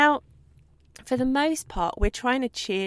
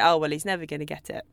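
resigned; 6 semitones lower, faster than usual. Retold or imitated. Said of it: "we give up and say".

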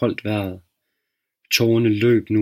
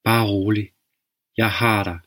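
soft voice. Acted. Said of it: "en svag stemme sagde".

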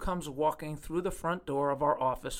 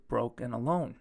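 usual speaking voice

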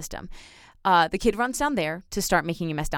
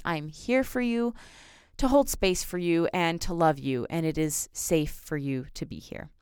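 loving reassurance. Pretend. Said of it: "lovingly approach this child".

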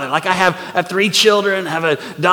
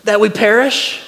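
frightened plea; 6 semitones higher, 3 dB louder, slower than usual. Retold or imitated. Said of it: "they wake him up and they say".

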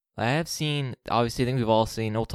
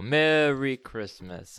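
jolly Santa greeting; 3 semitones higher, much slower than usual. Pretend. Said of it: "was going to do a ho ho ho in the opener".

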